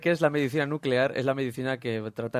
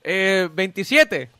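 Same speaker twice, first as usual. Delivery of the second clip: slow robot voice; 4 semitones higher, 5 dB louder, much slower than usual. Acted. Plays computing assistant.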